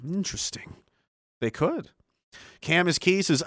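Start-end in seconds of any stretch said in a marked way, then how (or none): none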